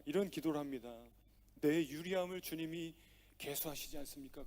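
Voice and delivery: a gentle, understated plea to God; David's prayer. Acted. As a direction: pray it humbly, as David.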